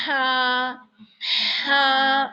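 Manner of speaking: ہا with a strong puff of air; breathy ha. Shown as a demonstration. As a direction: blow ہا onto the tissue. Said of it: "آواز نکالیے ہا کی". (ہا کو ہوا کے ساتھ ٹشو پر)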